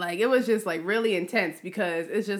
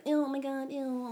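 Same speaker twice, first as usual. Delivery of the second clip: mock disgust; 5 semitones higher, 5 dB quieter than usual. Mocking disgusted critics.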